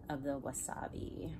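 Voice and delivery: unvoiced ASMR whisper. Real, not acted. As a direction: hush it over the wasabi. Sampling wasabi in ASMR.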